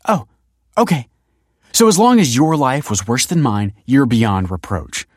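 loud, high, biting sarcasm; mock his excuse angrily, dragging out the ending; sarcastic anger. Kelsey mocks Tony's excuse for himself, loud and sarcastic. Sarcastic retort in acted quarrel.

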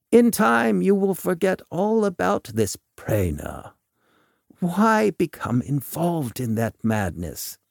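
deliberate doctor's voice swinging up high; Volk, dismissive. Acted. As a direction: counsel him to give up, with lilting emphasis.

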